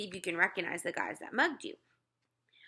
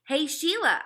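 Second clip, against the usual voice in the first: calling out; 7 semitones higher, 5 dB louder than usual. Acted. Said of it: "I said".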